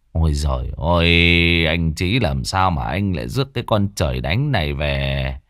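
lightly voiced older woman sighing; lamenting neighbour. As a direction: lament the boy's fate.

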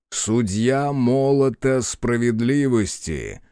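slow, grand title announced; solemn proclamation. Acted. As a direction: declare your title with gravity. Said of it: "провозгласил он".

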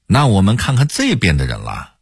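lightly mocked Hong Kong-Taiwan TV host; Hong Kong-Taiwan accent. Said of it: "也喜欢用港台腔儿".

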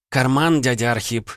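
put-on the girl demands it at gunpoint; firm order. A narrator's reading. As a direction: order him to hand it over. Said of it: "твёрдо приказала девушка".

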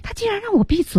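high-pitched disbelief; acted indignation. Co-host voices Marty being told to shut up, high indignant. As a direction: voice jumps up, affronted.

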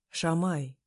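dissuading. Acted. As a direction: say Шамай as if about to talk her out of it. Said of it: "будто собираясь меня отговаривать".

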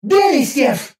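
high, sharp angry cry of a name; angry outcry. Acted. A jealous girlfriend calls out the hero's name, angrily. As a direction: fling the name out in fury. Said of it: "Взметнулись гневные взгляды".

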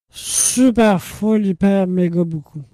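effusive, emphatic sign-off; gushing. Real, not acted. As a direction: pile it on, loud and stretched. Gushing love to the listeners.

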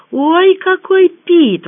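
high, loud, drawn-out admiring cry; delighted exclamation. A narrator's reading. Rita sees the pit bull, delighted exclamation. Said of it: "воскликнула Рита".

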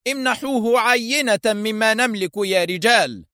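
high, commanding call to his men; stern order. A narrator's reading. Foster ordering his men to open fire, stern. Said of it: "وهو يقول في صرامة".

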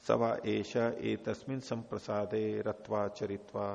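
slow, measured Sanskrit recital; scripture recitation. Acted. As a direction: recite the verse slowly and deliberately. (धीमा संस्कृत पाठ)

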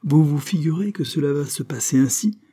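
indignant, tight-jawed question; through gritted teeth. A narrator's reading. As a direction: challenge them through clenched teeth. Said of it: "dit-elle entre ses dents serrées".

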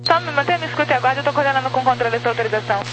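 crackly radio transmission voice; police radio. Real, not acted. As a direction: voice squeezed through a two-way radio. Radio transmission from another station.

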